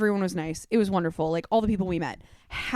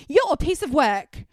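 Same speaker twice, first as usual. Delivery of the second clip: higher-pitched Australian jab; Australian accent; 6 semitones higher, 4 dB louder than usual. Retold or imitated. Tourist snapping at the store lady on leaving, Australian accent. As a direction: imitate an annoyed Australian tourist. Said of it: "I just knew 'cause of her accent".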